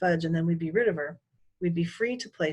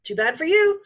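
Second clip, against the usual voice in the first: snotty retort; 11 semitones higher, 8 dB louder than usual. A narrator's reading. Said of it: "Sheila said".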